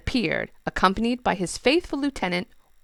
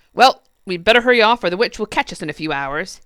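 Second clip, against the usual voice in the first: Friday voice; 9 dB louder, faster than usual. Acted.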